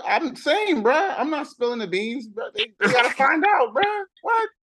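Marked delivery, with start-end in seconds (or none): 2.5-4.5 playful shout. Real, not acted. Refusing to spill the beans.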